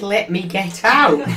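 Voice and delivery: pleading. Retold or imitated. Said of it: "Because I said".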